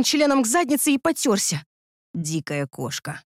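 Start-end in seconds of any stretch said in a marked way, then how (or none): 2.1-3.2 low, soft and slow, pleased; slow, soft, satisfied murmur; low, quiet, pleased man; satisfied mutter. A narrator's reading. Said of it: "удовлетворённо пробормотал он".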